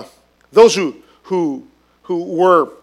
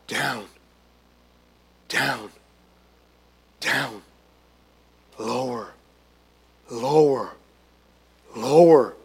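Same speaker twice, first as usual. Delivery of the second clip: much lower and softer on each down, lower; sinking words; 8 semitones lower, 6 dB quieter, slower than usual. Shown as a demonstration. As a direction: let every word drop like falling into a pit. Showing David sinking.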